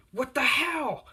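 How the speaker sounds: high, loud acted outrage; drawn-up high yell of disbelief; Bakugo. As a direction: shout it like a shocked, furious bully. Bully yells after being thrown.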